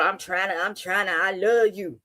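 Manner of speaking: mock Baltimore accent. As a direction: imitate a Baltimore man's vowels playfully. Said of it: "I love the Baltimore accents".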